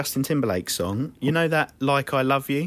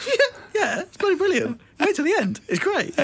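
higher, laughing fake praise; fake enthusiasm through laughter; 13 semitones higher than usual. Lying to big brother about the film, laughing and higher. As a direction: laugh while pretending to love the film. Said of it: "I went".

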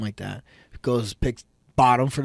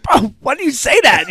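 high incredulous; 13 semitones higher, 9 dB louder than usual. Retold or imitated. Learning his son actually won.

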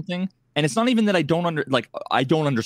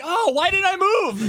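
much higher and slow, regretful wail; anguished whine; slower than usual. Retold or imitated. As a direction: stretch it out like you just ruined it yourself. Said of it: "you're like".

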